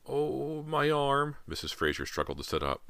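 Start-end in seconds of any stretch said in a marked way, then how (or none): 0.1-1.4 high, drawn wail of pain; pained moan. A narrator's reading. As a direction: moan as an injured mother. Injured mother in pain.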